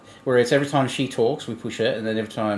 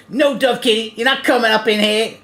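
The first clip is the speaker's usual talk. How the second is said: high, loud mock freak-out; frantic high-pitched mock scolding; imitated meltdown; 9 semitones higher, 4 dB louder than usual. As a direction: go mental in a hammed-up impression. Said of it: "he goes mental in a minute".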